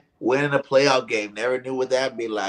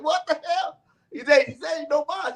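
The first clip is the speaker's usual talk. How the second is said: higher, mock outrage; 假装生气; mock angry coach.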